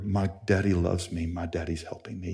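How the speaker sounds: soft, falling away very quiet; low, hushed refrain; tender reassurance. Retold or imitated. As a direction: say it gently as a comforting truth. Tender lesson from the story.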